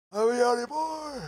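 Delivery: goofy high-pitched yell; silly high shout. Shown as a demonstration. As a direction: belt "yawny boy" way up high.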